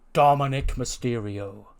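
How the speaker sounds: slow, drawn-out name; announcer's reveal. Acted. Boss adding another wrestler to the match, announcing grandly. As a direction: stretch the name out for effect.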